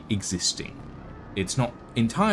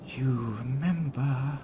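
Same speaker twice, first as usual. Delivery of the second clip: put-on panicking little girl, hushed; frightened whisper; 5 semitones higher, 5 dB quieter than usual. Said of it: "She goes".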